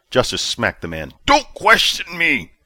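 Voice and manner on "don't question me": slow, louder menacing warning; cold threat. A narrator's reading. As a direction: lean on every word. Commander smacks officer.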